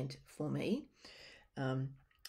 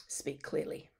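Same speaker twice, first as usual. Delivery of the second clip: whispering; 5 dB quieter than usual. Shown as a demonstration. Note dictated to the computer.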